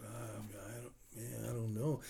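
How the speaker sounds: very quiet, hesitant retold reply; reluctant mumble. Young man hedging when asked for money, quiet and reluctant. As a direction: imitate someone reluctantly hedging under his breath.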